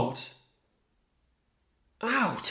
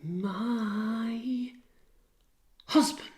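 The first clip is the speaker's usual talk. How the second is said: shocked disbelief; 8 semitones higher, 5 dB quieter, much slower than usual. Acted. Emilia disbelief again.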